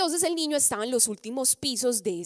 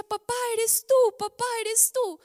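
put-on hopeful child's cry; 12 semitones higher, 4 dB louder than usual. Boy recognizes father's voice.

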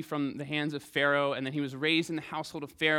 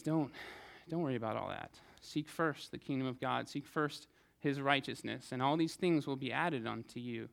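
soft reassuring Jesus; 4 dB quieter than usual. Acted. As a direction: settle their fears quietly. Jesus answering the anxious.

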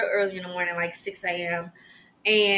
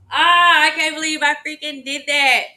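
a loud, exasperated cry of frustration, pitch up; real annoyance at herself bursting out loud; frustrated outburst; 7 semitones higher, 8 dB louder than usual. Real, not acted. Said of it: "I'm so freaking mad".

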